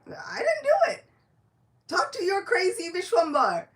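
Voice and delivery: high, loud cry of denial; shouting protest. Acted. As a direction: throw it back at him loudly. Nitai protests, laughing.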